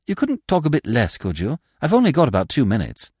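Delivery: pressing the point, a bit fast; impatient young toff. Acted. Freddy voiced in story.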